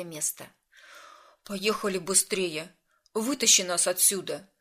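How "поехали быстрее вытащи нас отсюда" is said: urgent order. A narrator's reading. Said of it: "приказал он".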